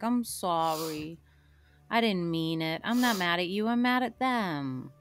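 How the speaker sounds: soothing apology. Acted. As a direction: make up gently after an outburst. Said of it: "nuzzle my head up against Cranston".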